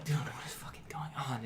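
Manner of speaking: soft, hushed, frantic whisper; panicked whisper. Retold or imitated. Stuck in the car while the cop questions Andy, a frantic whisper. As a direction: breathe it out, scared to be heard.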